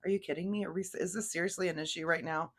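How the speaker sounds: mild mock disbelief, softly voiced; groan, then complain with an eye roll; understated, incredulous exasperation. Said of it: "almost like an eye roll".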